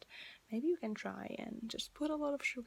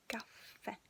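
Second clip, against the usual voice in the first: "Caffè" with the weight on final è; stress on last vowel; 4 dB quieter than usual. Shown as a demonstration. Teacher drilling the accented last letter, stressed final è in "Caffè". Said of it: "you have to really stress".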